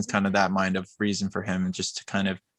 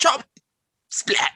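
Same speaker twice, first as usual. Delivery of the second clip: short spoken impact noises with a gap; punchy comic-book hits; cartoon sound effects. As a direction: voice the chop, then a whispered splat. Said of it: "do the sound effects".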